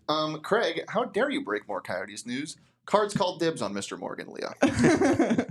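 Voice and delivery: mock-scolding podcast host voice, lifting at the end; Johnny Venerable impression. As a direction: read it as a playful impression of an indignant host. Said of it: "Can I read it in Johnny's voice?".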